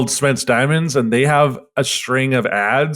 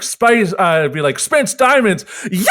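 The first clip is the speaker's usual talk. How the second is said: mock ad jingle; 4 semitones higher than usual. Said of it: "they end each commercial being like".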